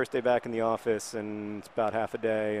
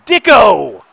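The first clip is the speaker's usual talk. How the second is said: loud, high, savoured call of the name; relishing the name; 10 semitones higher, 20 dB louder than usual. Real, not acted. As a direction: roll the name out with pure delight. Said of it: "I love saying it".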